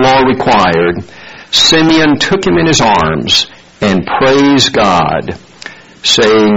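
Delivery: measured, solemn Bible reading; scripture reading. Acted. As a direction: read the lesson to the congregation. Reads scripture aloud before sermon.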